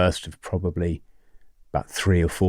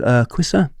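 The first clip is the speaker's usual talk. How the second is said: put-on higher Hong Kong-accented call; Miss Lynn; 6 semitones higher than usual. Head of English calling teacher back, Hong Kong accent. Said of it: "If I do the accent".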